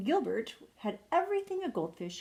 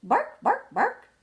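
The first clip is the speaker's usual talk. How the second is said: high, loud yappy barks; sharp high storybook woof; dog barking; 12 semitones higher, 8 dB louder, slower than usual. Acted. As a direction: bark out the word like an excited dog. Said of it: "and barked some more".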